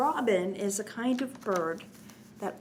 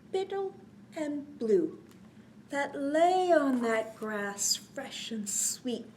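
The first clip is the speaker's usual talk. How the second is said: put-on reading to children; 3 dB louder than usual. A narrator's reading. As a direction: bounce the rhyme for little listeners. Reads cumulative rhyme to children.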